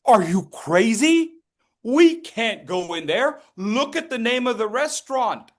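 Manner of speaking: the pig protests in outrage, pitch way up; indignant pig. Acted. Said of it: "And the pig says".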